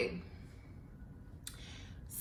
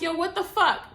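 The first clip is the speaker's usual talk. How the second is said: put-on old confrontational self; 9 semitones higher than usual. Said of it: "I would have been like".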